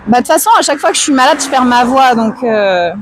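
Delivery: lost voice, hoarse and worn; rough, tired sick throat. Real, not acted. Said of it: "que j'ai la voix éclatée".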